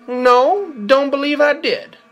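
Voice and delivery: high, drawn-out robot drawl; slow robot cowboy. Acted. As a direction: say it slowly, evasive cowboy bot. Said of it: "Victor said slowly".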